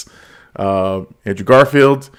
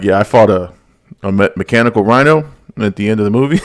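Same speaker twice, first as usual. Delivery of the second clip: imitating Andrew Garfield; faster than usual. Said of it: "he kinda says it like that".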